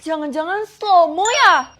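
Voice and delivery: slow-motion voice. Acted. Guessing the answer "slow mo.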